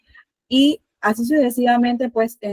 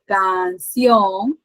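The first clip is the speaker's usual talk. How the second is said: syllable demo. Shown as a demonstration. Demonstrates dividing an example word.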